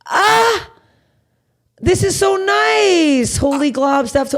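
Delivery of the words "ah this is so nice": squealing with joy at the comments; overjoyed. Real, not acted. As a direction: gush over the comments, stretched out.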